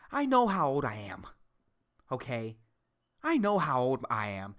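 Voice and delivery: put-on blunt old lady, deliberate with long pauses; lightly voiced old lady. Big old lady rebuffing a young flatterer, lightly acted bluntness. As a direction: lightly play an old woman setting someone straight. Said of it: "They're gonna be like".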